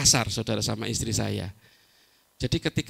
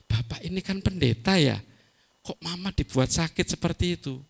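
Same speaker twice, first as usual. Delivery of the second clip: mildly voiced grown children, pitched higher; children's reproach; 4 semitones higher than usual. Grown children scolding their pastor father, a light higher-pitched reproach. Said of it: "dimarahin sama anak-anak saya".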